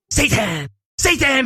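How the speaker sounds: high cry, rising on the repeat; gleeful toddler. Retold or imitated. Toddler greeting her mom with arms up, gleeful cry. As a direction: imitate a toddler cheering. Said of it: "she's, like, raising her arms in the air".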